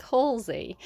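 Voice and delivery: A singer's name said as HAWL-zee; looked-up pronunciation. Shown as a demonstration. Reader reporting the pronunciation she found online, HAWL-zee. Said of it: "How does she pronounce her own".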